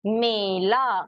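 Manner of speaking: "मेला" with a held ay in the first syllable; weight on ए. Shown as a demonstration. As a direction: lean on the ay of "मेला". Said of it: "इस तरीके से हम पढ़ सकते".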